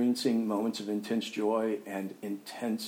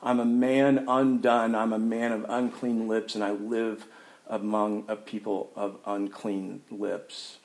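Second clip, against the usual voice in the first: lamenting cry. Acted. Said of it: "that cries out".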